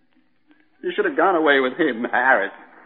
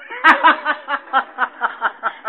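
bitter laugh; 6 semitones higher than usual. Acted. Scoffs at "a tough break.

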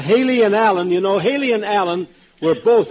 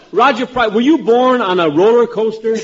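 teasing question pitched higher; voice going up; 4 semitones higher than usual. Retold or imitated. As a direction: mimic a rising, roller-coaster way of talking. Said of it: "His voice goes up".

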